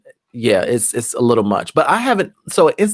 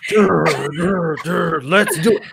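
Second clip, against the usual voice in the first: high, dim-witted goofball voice climbing into a slow shout; dopey Guzzy voice; 8 semitones higher, 3 dB louder, much slower than usual. Retold or imitated. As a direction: play the dumb guy bursting into rehearsal, yelling the last bit. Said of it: "Why would I do that voice?".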